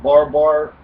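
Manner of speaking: a lightly voiced barbarian babbling; mock barbarian babble. Host mocks barbarians' speech with babble. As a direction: babble it like a barbarian who can't talk right. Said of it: "that's why they called them barbarians".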